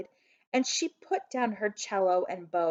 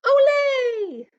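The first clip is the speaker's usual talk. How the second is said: yelling Ole; 10 dB louder than usual. A narrator's reading. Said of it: "hopping and yelling".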